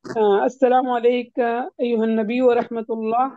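slow, careful reading of the Tashahhud line; slow Arabic recitation. Shown as a demonstration. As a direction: read it out slowly, pausing at و. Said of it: "پہ آپ رک گئی".

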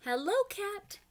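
high, bright call of a duck character; high friendly call to Cat; Duck calling hello. Acted. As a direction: sing out a cheery greeting as Duck. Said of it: "he called".

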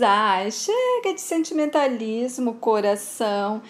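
slow, drawn-out sneer; mocking, dismissive. Tony hugs the grieving Bárbara and scoffs, slow mocking drawl. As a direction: brush off her tears with a slow sneer.

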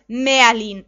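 sudden loud exclamation; excited commentator. A narrator's reading. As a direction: cry out in astonishment mid-commentary. Commentator spots a sudden turn.

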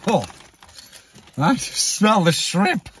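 high, loud laughing words. Real, not acted. Right after a burst of laughter.

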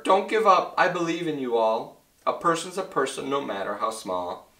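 calling out. Acted. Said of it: "he managed to call to the mayor".

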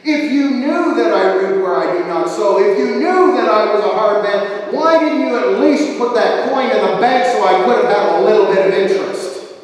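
indignant scolding, forceful but controlled; thundering master. Acted. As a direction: demand an answer from the servant. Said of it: "his master thunders at him".

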